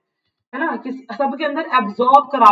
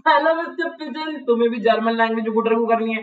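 lightly voiced mock-polite question to a pigeon; mock sarcastic. Teacher retelling Franz teasing the Prussians, sarcastic. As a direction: poke fun with a sweet fake politeness. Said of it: "sarcastic only".

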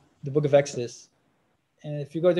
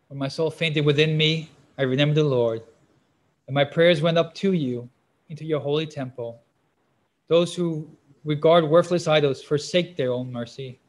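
emphatic, louder Bible reading; scripture reading; 5 dB louder than usual. Real, not acted. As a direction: read the verse out firmly to a congregation. Reads scripture aloud to listeners.

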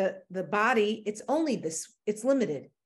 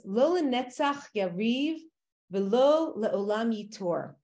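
reading Hebrew verse. Shown as a demonstration. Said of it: "so it says like this".

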